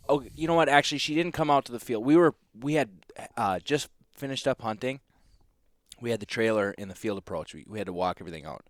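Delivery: ordinary talk, nothing marked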